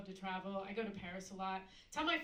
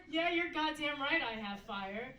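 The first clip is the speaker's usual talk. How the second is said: proud retort; 4 semitones higher, 4 dB louder than usual. Retold or imitated.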